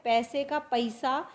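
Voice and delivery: पैसे plain then पैसा as "पइसा"; teacher contrasting पैसे and "पइसा"; Awadhi pronunciation. Shown as a demonstration. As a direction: turn पैसा into "पइसा", slowly. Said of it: "यहाँ पर क्या है".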